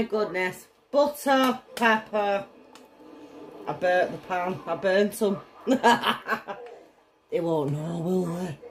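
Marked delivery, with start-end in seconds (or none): 3.7-8.6 tipsy giggle through the words. Real, not acted. I burnt the pan.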